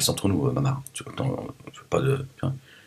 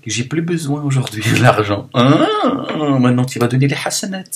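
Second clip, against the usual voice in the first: high, loud mother demanding good deeds; imitating his mother; 6 semitones higher, 5 dB louder than usual. Voicing his mother on judgment day, high, loud and gloating. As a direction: ham up the mother collecting her due. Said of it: "Ma mère, elle va dire".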